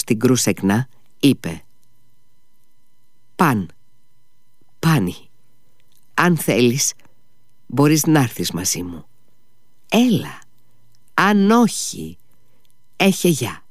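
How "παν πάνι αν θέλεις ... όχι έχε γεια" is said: measured, pausing, ending on higher pitch; pompous. A narrator's reading. Short Pole inviting Grushenka before leaving, pompous. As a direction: keep the dignity, phrase by phrase. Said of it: "χωρίς να χάσει καθόλου την πόζα του".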